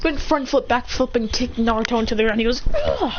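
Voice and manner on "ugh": high-pitched fight grunt; high effort grunt. Acted. Fighter kicking Naruto down, high effort grunt. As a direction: grunt high as the kick lands.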